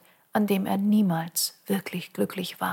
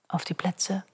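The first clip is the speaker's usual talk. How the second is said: whispered countdown; 5 dB quieter, slower than usual. Acted.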